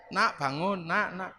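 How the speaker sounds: put-on father copying wife, softly waking kids; coaxing like wife. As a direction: gently rouse the children the wife's way. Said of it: "saya nyontoh istri saya".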